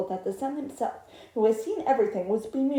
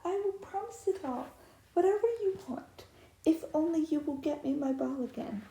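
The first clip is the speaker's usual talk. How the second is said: princess pleading; 4 semitones higher than usual. Acted. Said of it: "she answered".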